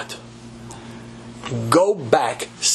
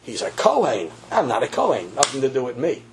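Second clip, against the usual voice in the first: mock excuse-maker; 2 semitones lower than usual. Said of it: "we don't want anybody to say".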